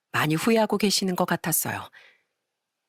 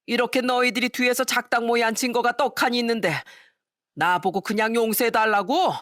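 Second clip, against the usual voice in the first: higher, scornful scolding father; angry father; 5 semitones higher than usual. Acted. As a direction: scold the lying daughter with contempt. Father scolds lying daughter.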